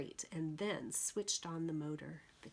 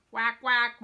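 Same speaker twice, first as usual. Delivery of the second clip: loud happy quacks; mother duck greeting her brood; mama duck quack; 5 semitones higher, 12 dB louder than usual. Acted. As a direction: quack with relief. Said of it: "Mama Duck said".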